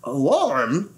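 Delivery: a drowsy, yawning echo; yawned. Acted. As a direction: yawn the word out half-asleep. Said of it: "yawned the trumpeter".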